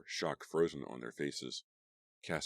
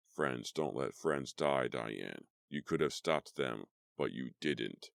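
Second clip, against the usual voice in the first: slow accusing ghost; slower than usual. Acted.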